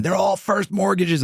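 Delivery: high-pitched imitation of indignant yelling; drawn-out, high mock protest; mock screaming. Bank fraud investigator insisting on his claim, mock screaming. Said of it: "Guy from Wachovia screaming".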